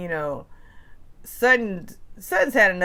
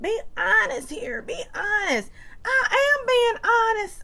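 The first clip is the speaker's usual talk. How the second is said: high, crying mock plea; whiny high-pitched reenactment of a tearful argument; hammed-up teary protest; acted quarrel. Acted quarrel, Kyle vs Sutton.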